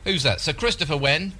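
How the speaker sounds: put-on dim old man voice. Prank caller plays a dim old man.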